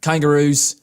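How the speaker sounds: put-on Australian accent. Shown as a demonstration. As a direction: try out an Aussie accent on one word. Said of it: "It's getting better already".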